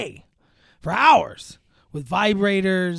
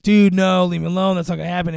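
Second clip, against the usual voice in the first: irritated refusal; 7 dB louder, faster than usual. Retold or imitated. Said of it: "pressing it, like".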